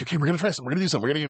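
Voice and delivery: a touch of manic excitement; Christmas-morning excited. Retold or imitated. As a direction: imitate someone too giddy to wait. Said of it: "like Christmas morning level excited".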